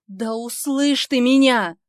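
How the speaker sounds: медленно, выше и громко; сорваться на крик; взрыв. Acted. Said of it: "взрывается Ник". (Ник взрывается на героиню)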